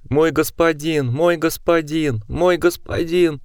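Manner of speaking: choked, slow gurgling mumble. A narrator's reading. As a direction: mumble through blood, choking. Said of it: "бормоча сдавленным, булькающим голосом".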